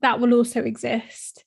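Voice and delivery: breathless, short of air; talking while out of breath. Real, not acted. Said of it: "if I sound out of breath".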